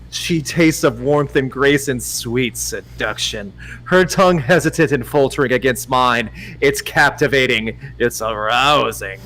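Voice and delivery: measured romance audiobook narration; story narration. Acted. Narrator reading a romance to Dom, measured storytelling. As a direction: read the love scene deliberately. Reads a romance novel aloud.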